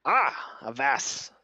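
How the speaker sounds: lightly voiced pompous adventurer; hearty boast. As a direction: boast grandly of deeds. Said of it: "he points at you and goes".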